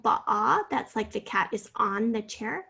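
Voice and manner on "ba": ba'a said as an open "bah" sound; sounding out syllable. Shown as a demonstration. Teacher sounding out the first syllable of bottom, a long "bah". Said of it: "the first syllable".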